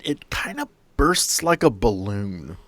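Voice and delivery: ordinary delivery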